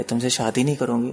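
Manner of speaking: calm refusal. Retold or imitated. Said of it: "आराम से बोलती थी वो".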